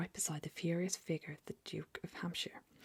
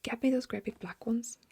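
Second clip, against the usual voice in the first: higher and louder, bossy; whispered shout; 6 semitones higher, 5 dB louder than usual. Acted. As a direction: bark the order in a hushed shout. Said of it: "the man was shouting".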